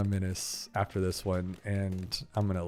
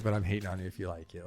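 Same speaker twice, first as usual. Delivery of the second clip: quiet aside; 3 semitones lower, 5 dB quieter, faster than usual. Shown as a demonstration. Joke contrasting not hating vs hating.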